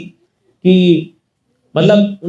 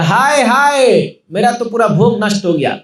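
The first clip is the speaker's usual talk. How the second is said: lament; 3 semitones higher than usual. Acted. ब्राह्मण का भोग बालक खा गया.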